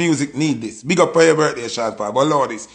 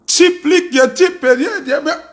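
laughing; 5 semitones higher than usual. Real, not acted. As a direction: laugh through the words. Laughing reaction to lyric.

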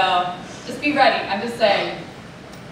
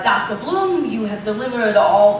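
bad Boston accent; 3 semitones lower than usual. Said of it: "this is a bad Bostonian accent".

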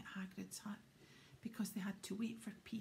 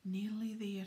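panting; 7 dB louder than usual. Acted. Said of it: "Harry panted".

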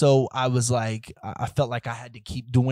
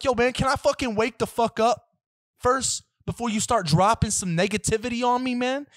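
exasperated gripe; 10 semitones higher than usual. Retold or imitated. Griping at the morning news.

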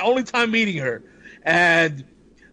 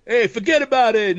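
New Yorker; 4 semitones higher than usual. Retold or imitated. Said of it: "New Yorker".

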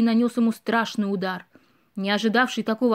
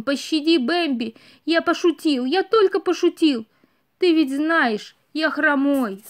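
pleading; 4 semitones higher than usual. Acted. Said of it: "взмолился он".

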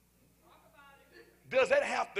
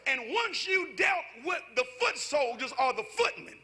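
preaching at full force; 3 semitones higher than usual. Acted. Preacher to the congregation about footmen and horses, rising fervent shout. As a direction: push each line harder toward the close.

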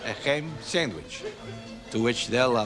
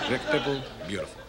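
muttered echo; 6 dB quieter, faster than usual. Shown as a demonstration. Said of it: "Say that after me".

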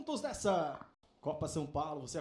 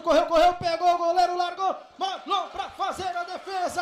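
excited play-by-play; 4 semitones higher, 4 dB louder than usual. Real, not acted. Fast attacking play.

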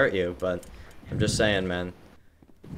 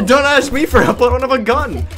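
laughing; 12 semitones higher, 5 dB louder than usual. Real, not acted. Laughing refusal.

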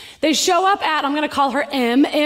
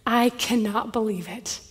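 tearful; 3 semitones lower, 6 dB quieter than usual. Retold or imitated. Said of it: "she's just crying and says".

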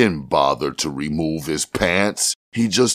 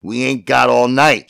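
high, louder frantic urging; wild; 9 semitones higher, 4 dB louder than usual. A narrator's reading. Jimmy urging Tiny off, wild and frantic. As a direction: push him off in a frenzy. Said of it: "Jimmy said wildly".

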